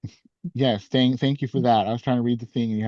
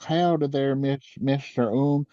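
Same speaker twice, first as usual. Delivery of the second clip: hick president voice; 3 semitones higher, 3 dB louder than usual. Pretend. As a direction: play a crude yokel leader. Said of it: "I would've been like".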